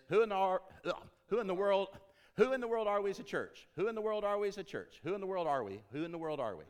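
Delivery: high, loud holler of "Who in the world", fading toward the end; hollered demo. Shown as a demonstration. Preacher showing Bill the phrase to holler. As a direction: shout it to the thirty yard line. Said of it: "Yours is".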